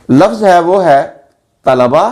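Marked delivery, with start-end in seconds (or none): 1.6-2.0 तलबा as ta-la-ba; correct pronunciation. Shown as a demonstration. Teacher recapping the lesson, तलबा as ta-la-ba. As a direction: say तलबा in three syllables. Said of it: "इसका दुरुस्त तलफ़ुज़".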